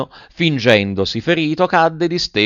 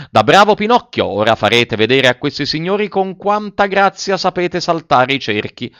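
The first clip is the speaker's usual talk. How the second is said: shouted command; 6 semitones higher than usual. Acted. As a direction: order the donkey before the crowd. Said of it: "gridò". (comando gridato davanti al pubblico)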